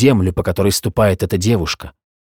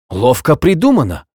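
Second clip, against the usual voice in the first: higher, excited exclamation; exclaiming; 5 semitones higher than usual. Acted. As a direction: blurt it out, impressed. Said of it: "воскликнул молодой человек".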